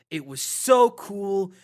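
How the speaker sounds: very slow, stilted mock dub read; bad ADR line. Mocking the movie's bad dubbing for her co-host, slow stilted read. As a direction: drag it out like lifeless dubbed dialogue. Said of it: "another wonderful moment of A D R".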